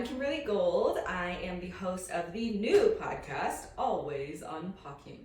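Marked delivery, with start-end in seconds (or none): 3.8-5.2 put-on playful British announcer accent. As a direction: show title in a mock British accent. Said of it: "that has to be done in a British accent".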